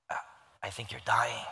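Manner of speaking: halting, held-back retold verdict; stoic man struggling. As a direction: imitate someone trying not to react to a stench. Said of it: "trying not to say that it's bad".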